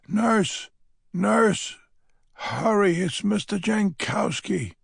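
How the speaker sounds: high, loud urgent call down the hall; calling for the nurse. A narrator's reading. Old lady calls the nurse down the hall, loud high urgent call.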